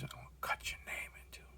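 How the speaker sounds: barely voiced, very soft, intimidating whisper. Speaker retells a threat that a man whispered: retelling a whisper. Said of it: "But he whispers".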